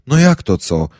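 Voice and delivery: put-on shouting the news at his girlfriend. A narrator's reading. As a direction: bellow it at her in disbelief. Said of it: "krzyczę".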